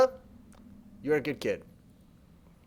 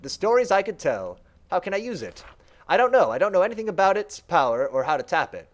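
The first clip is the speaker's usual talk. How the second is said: servant mind. Acted. Servant mind on Gene Forge.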